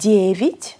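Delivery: Девять with a clear stressed first syllable, second as "i". Shown as a demonstration. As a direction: stress the start of Девять, weaken the end to "vit". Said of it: "Γε με τόνο". (Девять με τονισμένο «γε» και άτονο «ι»)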